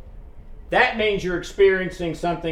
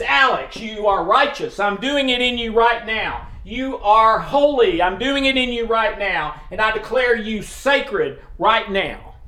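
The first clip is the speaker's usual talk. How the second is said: emphatic declaration; 4 semitones higher than usual. Retold or imitated. Pastor voicing God declaring Alex holy, emphatic and fervent. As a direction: proclaim it firmly, pressing every line home.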